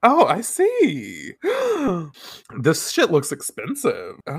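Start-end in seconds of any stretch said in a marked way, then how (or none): 1.4-2.1 gasp. Real, not acted. Seeing expensive shop.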